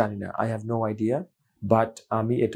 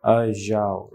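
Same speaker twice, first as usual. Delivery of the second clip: sleepy voice; 3 semitones lower, slower than usual. Shown as a demonstration. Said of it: "ঘুমন্ত অবস্থায় যাও কথাটা কিন্তু শোনাবে".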